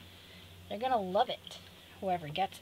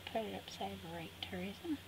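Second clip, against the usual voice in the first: whispered self-correction; whispering; 7 dB quieter than usual. Real, not acted. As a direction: murmur it to yourself. Chiding herself under breath.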